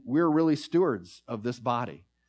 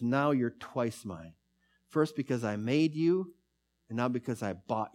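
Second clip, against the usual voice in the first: put-on tender whisper-soft boy; 2 semitones lower, 4 dB quieter than usual. Boy to his boat, softly and tenderly. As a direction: hold the boat close and murmur it.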